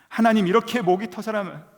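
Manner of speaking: high, loud cry of complaint; anguished cry. Retold or imitated. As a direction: cry out to God in protest. 하나님께 원망하며 외치는 기도. (목이 터져라 원망하며 외치기)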